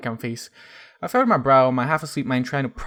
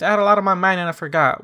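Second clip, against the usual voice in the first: hissed defensively; 6 semitones higher, 7 dB louder, faster than usual. A narrator's reading. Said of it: "she hissed".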